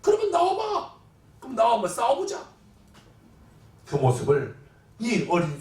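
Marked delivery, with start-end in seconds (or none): 0.0-2.5 raised-pitch jeering dare; mocking challenge. Goliath mocking Israel's God, taunting challenge. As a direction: goad them into coming out to fight. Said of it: "그 하나님을 조롱하는 거예요".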